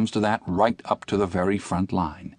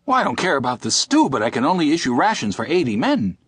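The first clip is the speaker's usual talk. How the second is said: persistent; 6 semitones higher, 4 dB louder, faster than usual. A narrator's reading. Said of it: "persisted Ginger".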